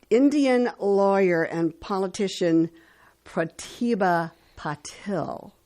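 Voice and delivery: measured announcer read with pauses before names; radio history read. Acted. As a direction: read out the dates and facts like a radio host. Reads today in history on radio.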